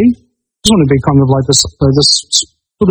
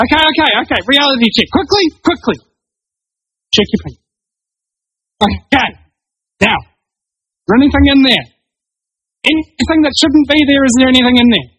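calming counselor; 11 semitones higher than usual. Retold or imitated. Host calming listener's panicked flatmate, high and coaxing. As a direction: talk him down step by step. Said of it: "and I was just like".

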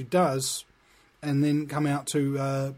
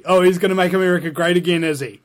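sarcastic; 6 dB louder, faster than usual. Acted. Mocking Trump fans sarcastically.

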